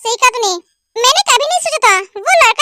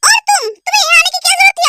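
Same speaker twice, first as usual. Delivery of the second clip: angry scolding; 5 semitones higher, faster than usual. Acted. Doctor scolds the brothers.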